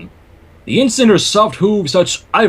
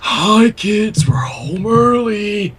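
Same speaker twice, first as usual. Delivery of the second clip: sitcom parent shout; 3 semitones higher, much slower than usual. Pretend. Joking sitcom parent entrance.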